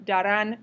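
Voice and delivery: Darán with the emphasis on -rán; stress on last syllable. Shown as a demonstration. Teacher showing why the accent is written, last syllable of Darán stressed. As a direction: punch the final syllable of Darán. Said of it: "keep the emphasis on the last syllable".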